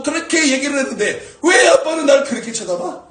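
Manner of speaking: high, indignant complaint; acted angry daughter. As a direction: protest like an affronted daughter scolding dad. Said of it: "딸이 화를 내더라는 거예요".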